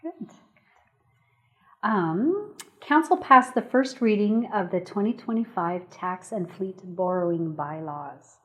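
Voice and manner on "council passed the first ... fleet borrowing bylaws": measured, deliberate read-out of a bylaw title; slow reading. Real, not acted. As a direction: read it slowly, slowing further toward the end. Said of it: "I had to read it slow".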